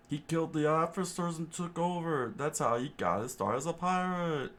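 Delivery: high put-on chef voice, steady telling; exposition chef. Chef tells the story of Krieg, high character voice.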